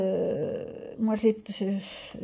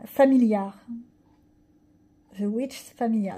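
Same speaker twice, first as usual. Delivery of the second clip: retry English accent. Real, not acted. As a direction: correct yourself on "Familiar". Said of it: "mais alors mon accent, ça fait peur". ("Familiar" repris avec un accent anglais appuyé)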